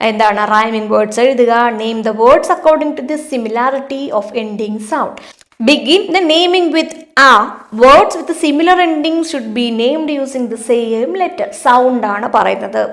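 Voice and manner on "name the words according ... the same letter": reading the question out very slowly; slow, deliberate classroom read-aloud; slow textbook reading. Acted. Teacher reads activity instructions.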